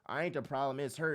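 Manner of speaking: a hint of a low, soft defensive boyfriend; lightly voiced denial. Serial dater blaming his exes, low and soft. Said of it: "your man's like".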